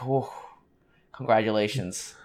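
soft, muted retelling of congratulations; understated congratulations. Retold or imitated. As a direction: retell the congratulations with the excitement dialed down. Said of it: "I was obviously more excited".

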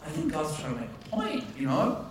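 hushed inner realization; internal aside. Retold or imitated. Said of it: "I'm like".

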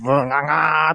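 spout a long mock rattling noise; vocal sound effect; imitated noise. Imitates noise while describing shop procedure.

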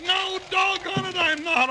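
high, exasperated cry; a cranky old-timer's yelp; indignant outburst. Acted. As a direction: blurt it out, fed up and sore. Complaining after the crash.

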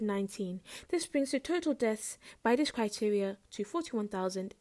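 calm radio bulletin, smooth delivery. Pretend. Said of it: "The smooth radio voice has, um, been turned off".

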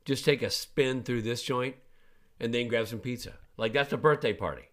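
dad hyping a store birthday party to his son, eagerly; excited pitch. Retold or imitated. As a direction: sell the birthday plan with rising excitement.

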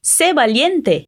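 "Sé valiente" slowly with a clear final T; "Sé valiente" drawn out, T sounded; very slow Spanish model. Shown as a demonstration. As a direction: stretch out "valiente", V as B, T crisp. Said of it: "a gente diz valiente com som de T".

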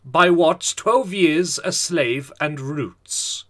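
very slow dramatic trailer read; epic voice. Acted. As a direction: drag it out like a movie trailer. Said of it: "Read it out in an epic voice".

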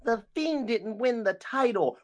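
high, drawn-out mock wail; slow, whiny parody of fan outrage; mock crying. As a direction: imitate a crybaby fan complaining. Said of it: "not coming from me crying like".

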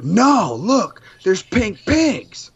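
put-on high, slow kid voice insisting; child voice. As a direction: play an insistent little kid. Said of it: "my son was like".

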